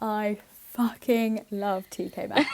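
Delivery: giggling through "fucking love T K Maxx"; slow amused declaration; laughing emphatic. Shown as a demonstration. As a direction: laugh while stressing the swear. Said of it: "emphasis on fucking".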